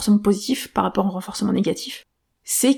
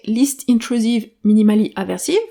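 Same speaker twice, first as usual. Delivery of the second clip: English acronym read with a strong French accent; self-mocking French accent on Least Intrusive Minimally Aversive. Real, not acted. Podcaster reading an English acronym for listeners, in a self-mocking French accent. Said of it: "avec mon magnifique accent".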